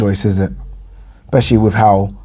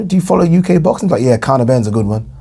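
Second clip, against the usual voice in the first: put-on American accent; 3 semitones higher, faster than usual. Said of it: "I just did an American accent there".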